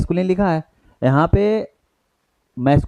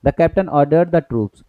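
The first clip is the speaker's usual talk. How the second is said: slow read-aloud; 2 semitones higher, much slower than usual. Shown as a demonstration. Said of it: "तो ये भी नहीं हो सकता".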